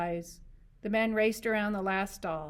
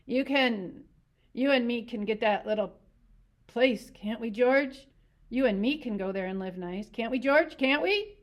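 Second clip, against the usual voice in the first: put-on pleading old man; 4 semitones higher, 7 dB louder than usual. A narrator's reading. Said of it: "Candy pleading, voice rising".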